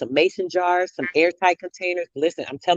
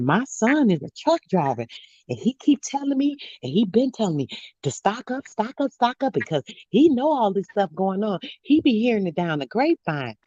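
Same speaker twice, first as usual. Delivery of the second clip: lightly imitated old lady with swooping higher pitch; sweet old lady; 4 semitones higher than usual. Old lady passing on her trucker son's warning, lightly imitated. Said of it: "She was a sweet little old lady too".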